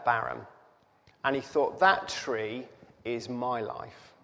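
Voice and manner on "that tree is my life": fighting tears mid-quote; choked up. Real, not acted. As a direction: voice catching, real emotion held back. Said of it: "I'm not getting emotional".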